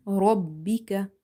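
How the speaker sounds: Rabbika with a full-mouth ra and light kaf; slow Rabbika, heavy ra, doubled b. Shown as a demonstration. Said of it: "Ra is heavy. This kaf is light".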